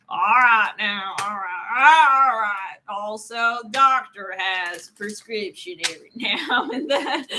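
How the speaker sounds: hammed-up Texan accent, words stretched out; Doctor Phil. Tarot reader channeling a TV doctor, hammed-up Texan accent. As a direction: draw out a mock Texan accent. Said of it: "channeling all Doctor Phil".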